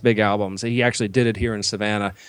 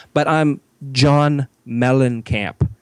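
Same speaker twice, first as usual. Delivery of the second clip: self-important star; much slower than usual. Retold or imitated. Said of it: "He goes".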